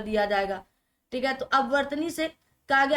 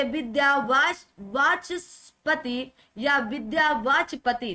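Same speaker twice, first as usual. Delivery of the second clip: slow syllables; slower than usual. Shown as a demonstration. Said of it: "विद्या वाचस्पति होता है".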